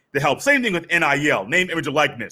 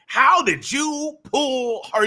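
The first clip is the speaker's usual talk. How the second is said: impressed classmate; 7 semitones higher, slower than usual. Retold or imitated. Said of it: "everybody in school is like".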